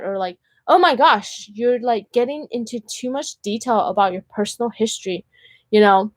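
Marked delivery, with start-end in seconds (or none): 0.7-5.2 higher-pitched imitation of a disapproving date; hammed-up shocked complaint; mock scandalized. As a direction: act out a put-off date objecting. Imitating a date who scolds her.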